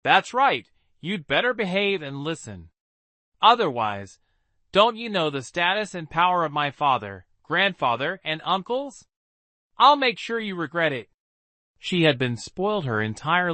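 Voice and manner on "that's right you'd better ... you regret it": high, smug threatening voice. Acted. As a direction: gloat and threaten. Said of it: "smugly added".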